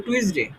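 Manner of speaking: টুইসডে as "tu-is-de", with a w glide; plain t and w glide in টুইসডে; common mispronunciation. Shown as a demonstration. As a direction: say টুইসডে the everyday way, "twis-de". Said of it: "যেমন হচ্ছে এটা আমরা".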